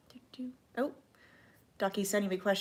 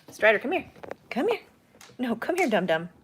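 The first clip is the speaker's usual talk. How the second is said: coaxing dog call; 3 semitones higher, 4 dB louder than usual. Real, not acted. Calling dog again.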